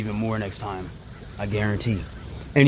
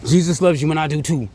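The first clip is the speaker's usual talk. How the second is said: cheerful sign-off; 6 semitones higher, 3 dB louder than usual. Real, not acted. Sign-off blessing.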